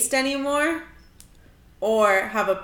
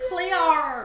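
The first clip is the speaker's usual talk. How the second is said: put-on New Zealand accent; 6 semitones higher, 3 dB louder than usual. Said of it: "Rate my New Zealand accent".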